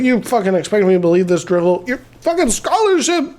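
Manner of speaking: put-on anger, rising in pitch; mock furious. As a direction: imitate an outraged chairman, without shouting. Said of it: "the chairman is fucking furious about it".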